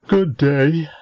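high lazy drawn-out greeting; a languid young man's hello; languid youth greeting. Acted. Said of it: "said this individual".

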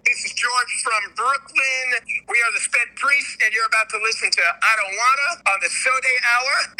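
a light, half-hearted Italian accent; faint Italian accent on a radio intro. Shown as a demonstration. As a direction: try for a heavy Italian accent, but only a hint comes out. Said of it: "Super heavy Italian accent".

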